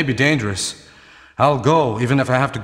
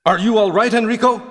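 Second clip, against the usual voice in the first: worried call; 7 semitones higher, 3 dB louder than usual. Acted. Barry calls to wounded Enrico.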